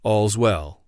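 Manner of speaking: understated, reassuring watch cry; subdued echo of the sentry's call; peace and safety cry. A narrator's reading. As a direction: say it low-key, as a sign of safety. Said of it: "peace and safety cry".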